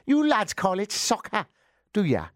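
playful West Country banter; West Country accent. Pretend. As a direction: tease the Americans in a West Country voice. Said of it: "That's gone a bit West Country".

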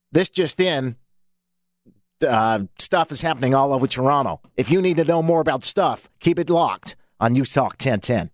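mock North American announcer with intensity; hammed-up North American radio plug. Shown as a demonstration. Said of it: "This is me doing my North American, but with intensity".

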